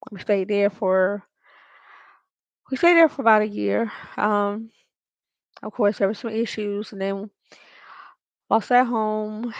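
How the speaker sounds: muffled, mouth covered; hand over mouth. Real, not acted. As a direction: talk through a covered mouth. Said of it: "what do I got my mouth covered".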